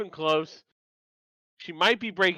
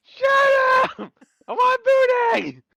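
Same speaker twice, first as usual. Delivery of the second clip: very high, loud crying yell and wail. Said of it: "Chibi yelling about Moon Dang".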